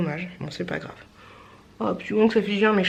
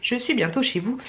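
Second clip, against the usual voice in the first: put-on African accent; 3 semitones higher than usual. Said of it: "je fais l'accent africain".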